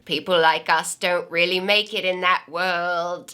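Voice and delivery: lightly voiced medieval plebeian; a hint of an old-time peasant. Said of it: "why do you sound like a peasant".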